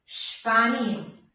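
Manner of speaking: "സ്പാനിയൻ" opening with sh; hushing shp at the start of "സ്പാനിയൻ"; German sp as shp. Shown as a demonstration. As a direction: say "സ്പാനിയൻ" as shpah-ni-en. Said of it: "ഇവിടെ ഷ് എന്നുള്ള".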